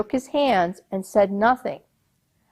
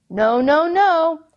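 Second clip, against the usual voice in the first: rising, louder no, no, no; firm refusal; 8 semitones higher, 4 dB louder, slower than usual. Acted. Captain refusing the old man, firm and loud. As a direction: shut him down.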